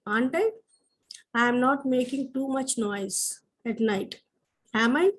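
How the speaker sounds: slow, careful dictation of examples. Shown as a demonstration. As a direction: spell out each example sentence for the class. Teacher dictates example sentences. (నెమ్మదిగా dictation చేస్తూ)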